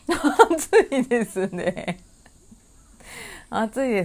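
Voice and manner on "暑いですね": laughing. Real, not acted. Laughing while agreeing.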